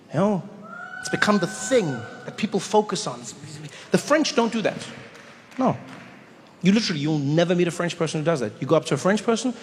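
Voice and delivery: ordinary talk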